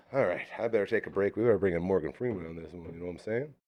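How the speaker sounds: a bit winded, quiet; out of breath. Real, not acted. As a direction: talk while catching your breath. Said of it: "Getting a little out of breath".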